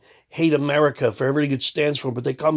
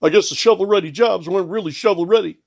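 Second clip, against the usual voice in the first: lightly voiced politician, quick and a bit louder; a hint of a smug politician; politician impression; 4 semitones higher, 4 dB louder, faster than usual. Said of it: "someone who talks like this".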